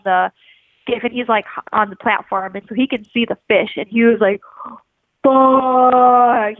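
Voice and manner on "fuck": retold cursing. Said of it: "he just starts going off".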